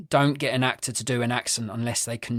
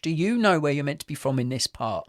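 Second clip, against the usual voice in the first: mock puzzled questioning; 5 semitones higher than usual. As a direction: quiz the actor in exaggerated confusion. Mock questioning of actor's accent.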